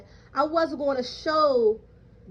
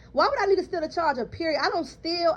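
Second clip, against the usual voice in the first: heated; 5 semitones higher than usual. Retold or imitated. To the supervisor, repeating the question faster and heated. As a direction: fire the question back quicker and harder.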